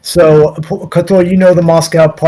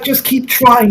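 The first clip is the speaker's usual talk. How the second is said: mock yell from the shower; 6 semitones higher, slower than usual. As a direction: imitate someone calling out from the shower. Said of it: "He's yelling".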